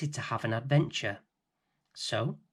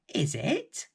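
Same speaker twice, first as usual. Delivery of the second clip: Rose surprised; 6 semitones higher than usual. Acted. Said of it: "said Rose".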